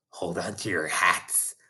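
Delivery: low, soft aside to a friend; hushed schoolgirl warning; whispered warning. A narrator's reading. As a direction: murmur it under your breath. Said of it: "Hortensia whispered".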